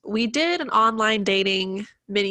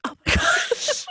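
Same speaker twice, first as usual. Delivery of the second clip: surprised; slower than usual. Real, not acted. Stunned by friend's dream jobs.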